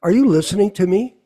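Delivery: quick mock demand, clipped and pushy; imitated demand. Mocking a talker who demands attention, quick and pushy. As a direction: rattle it off like a needy talker. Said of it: "they turn around and say to you".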